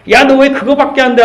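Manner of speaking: high sharp scold, punching 왜; mock scolding. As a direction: scold the kid: 너 왜 그거밖에 안 돼?. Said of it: "하고 회초리 있다고 해야 변할까요?".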